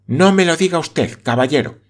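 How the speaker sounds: high, urgent cry of protest; pleading exclamation. Acted. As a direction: beg him to stop. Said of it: "exclamó la señorita Campbell".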